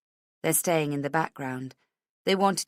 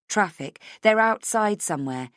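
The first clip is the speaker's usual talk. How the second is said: ordinary delivery, nothing marked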